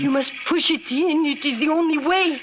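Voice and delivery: urgent push. Acted. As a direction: press him hard to break through. Urging him to force door.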